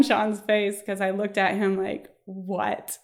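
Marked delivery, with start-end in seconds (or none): 2.2-3.0 soft, stunned retold what; hushed mock disbelief. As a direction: drop to a small, quiet voice. Stunned look at partner, retold.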